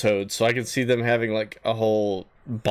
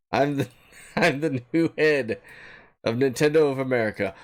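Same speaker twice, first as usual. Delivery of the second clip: mad scientist. Pretend. Villain self-announcement, evil laugh follows.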